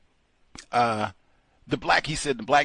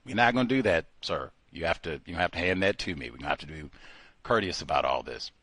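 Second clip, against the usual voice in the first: firm clerk; 6 semitones lower than usual. Retold or imitated. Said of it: "She says".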